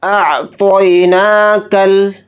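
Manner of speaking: अअतैनाकल with the नून lengthened a little; slight stretch. Shown as a demonstration. Teacher showing the standing zabar on नून, slow. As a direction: draw out the na in अअतैनाकल slightly, very slowly. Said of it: "नून को थोड़ा खींच कर पढ़ेंगे".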